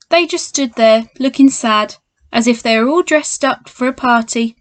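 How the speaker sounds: lively storybook read-aloud; reading to children. A narrator's reading. Teacher reads Paddington to children at home, lively storybook voice. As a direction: read it like a bedtime picture book for kids.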